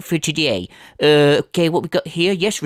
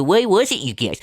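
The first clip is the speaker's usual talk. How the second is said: mimicking streamer. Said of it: "put their heads together and go".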